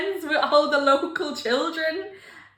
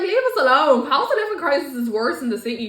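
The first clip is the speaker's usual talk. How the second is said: mock protest; 2 semitones higher, 5 dB louder than usual. Acting Dubliners' protest at being hated.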